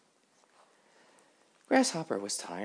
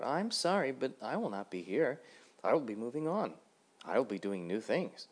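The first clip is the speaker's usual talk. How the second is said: lively Grasshopper; 5 semitones higher than usual. Acted. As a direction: ask it brightly, a bit higher. Grasshopper voiced in story.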